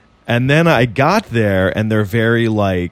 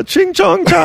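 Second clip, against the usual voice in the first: high, slow mock East Asian accent; silly high-pitched East Asian accent; 4 dB louder, slower than usual. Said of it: "Do an Asian accent right now in a silly voice".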